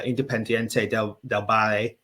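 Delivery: lightly put-on Spanish accent. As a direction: say the club name with a hint of Spanish. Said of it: "which is my bad Spanish accent".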